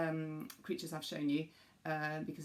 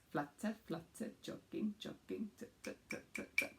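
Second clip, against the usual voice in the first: much softer, almost breathed tut tut; soft rhythm demo; 3 semitones higher, 7 dB quieter than usual. Shown as a demonstration. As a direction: softly tap out the rhythm. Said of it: "show them the rhythm".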